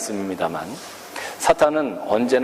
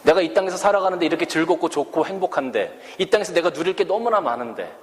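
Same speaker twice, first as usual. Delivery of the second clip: higher, pleading questions of a torn believer; questioning believer; 5 semitones higher than usual. Retold or imitated. Pastor voices Christians who want both worlds, higher pleading. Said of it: "그렇게 질문하는 그리스도인들이".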